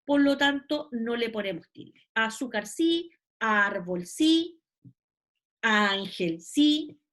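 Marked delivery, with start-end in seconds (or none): 3.4-4.1 "árbol" drawn out slowly on ÁR; stress on first syllable. Shown as a demonstration. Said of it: "tiene su sílaba tónica en posición penúltima". 5.6-6.4 "ángel" drawn out slowly on ÁN; stress on first syllable. Shown as a demonstration. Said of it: "tiene su sílaba tónica en posición penúltima".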